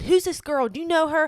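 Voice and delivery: retold yell. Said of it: "he's yelling at her".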